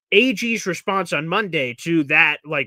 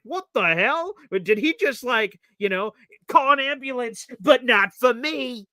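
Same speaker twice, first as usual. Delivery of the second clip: mock disbelief; 6 semitones higher, slower than usual. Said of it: "I'm like".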